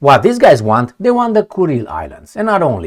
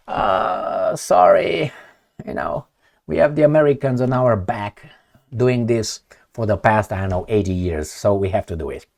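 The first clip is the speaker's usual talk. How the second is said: softer, lower apologetic mumble; sheepish excuse; 6 semitones lower, 6 dB quieter than usual. Acted. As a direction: shrug it off with an awkward apology. Japanese sheepishly excusing themselves.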